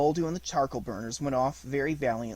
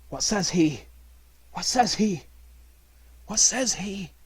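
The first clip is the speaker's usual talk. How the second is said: wolf voice; 7 semitones higher, 3 dB louder than usual. Acted. Wolves asking repeatedly.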